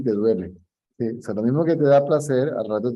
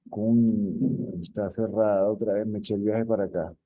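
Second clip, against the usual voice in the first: disappointed grumble; 6 dB quieter than usual. Retold or imitated. Quoting a disappointed customer.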